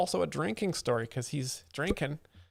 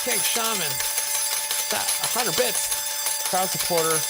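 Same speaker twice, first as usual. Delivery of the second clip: put-on announcer voice; 6 semitones higher, 4 dB louder than usual. Reading donation in put-on voice.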